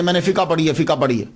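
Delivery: "فقہ" said casually as fi-kaa; colloquial mispronunciation. Retold or imitated. Lecturer quoting what people say, "فقہ" casually as fikaa. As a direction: add an open a after the k in "فقہ". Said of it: "جبکہ یہ اس کا پروننسی".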